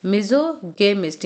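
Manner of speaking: मिज़ोगेमिस्ट slowly, with a hard g; hard "ga" sound. Shown as a demonstration. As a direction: model मिज़ोगेमिस्ट as "mizo-GAY-mist", slowly. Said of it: "यहाँ पे क्या sound आएगा". (मिज़ोगेमिस्ट धीरे से, "ग" की आवाज़ के साथ)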